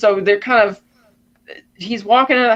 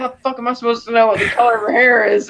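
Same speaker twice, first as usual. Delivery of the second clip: raised pitch, mildly indignant retort; retold exasperation; 5 semitones higher than usual. Blind old George answering his visitor, mildly exasperated. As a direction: act out an irritated comeback, pitched up.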